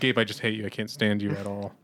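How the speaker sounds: deadpan mock hatred; dry sarcasm. Showing how his sarcasm now comes out, dry sarcasm. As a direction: deliver the insult as if stating plain fact. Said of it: "really, really dry sarcasm".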